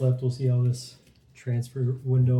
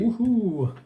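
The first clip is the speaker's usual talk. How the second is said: excited cheer; 9 semitones higher, 5 dB louder than usual. Real, not acted. Cheering card pull.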